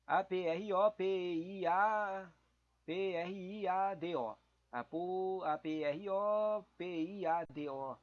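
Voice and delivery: letters spelled out one by one, slowly; slow spelling. Shown as a demonstration. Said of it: "Vamos ver o que que tá escrito aqui".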